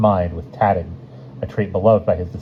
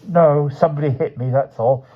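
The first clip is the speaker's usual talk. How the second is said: Martins voice; 8 semitones higher, 4 dB louder than usual. A narrator's reading. Martins voiced, far timbre.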